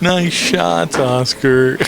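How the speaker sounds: mock encouragement with a little sarcasm; sarcastic cheer. Commentator imitates the girlfriend heckling her man, lightly sarcastic. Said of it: "there was a little sarcasm in her voice".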